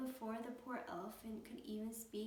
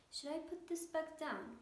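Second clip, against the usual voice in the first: alarmed; 6 semitones higher than usual. A narrator's reading. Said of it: "Horton thought with alarm".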